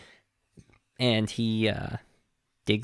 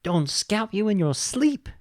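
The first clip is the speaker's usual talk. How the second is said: high-pitched, blustering cowboy impression; hammed-up high voice of warning; cartoon cowboy warning; 9 semitones higher, 3 dB louder than usual. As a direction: warn him like a hot-tempered little gunslinger.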